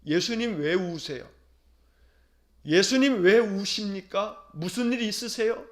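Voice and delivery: gently asking Jesus. Pretend. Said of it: "예수님께 물어야 합니다".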